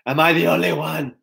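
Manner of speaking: mock whining, playing the victim; whiny self-pity. Elijah whining to God in the cave, mock whiny. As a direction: imitate a little whiner feeling sorry for himself. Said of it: "being a little whiny bitch".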